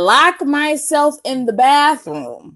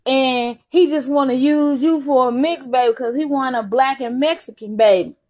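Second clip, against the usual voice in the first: confiding gossip; 5 semitones higher than usual. Retold or imitated. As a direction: tell the secret with emphasis. Sister tells the truth about the boy.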